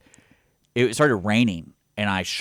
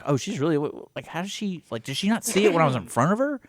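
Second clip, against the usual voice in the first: panicked thought; 9 semitones higher than usual. Retold or imitated. Retold own panicked thought.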